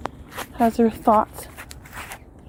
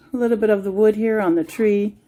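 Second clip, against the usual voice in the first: normal talking voice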